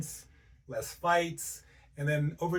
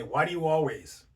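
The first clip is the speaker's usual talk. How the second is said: mildly angry demo of reproach; resentful, judging question; accusing tone. Shown as a demonstration. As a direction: go at them with an accusation. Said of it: "I'm using that tone".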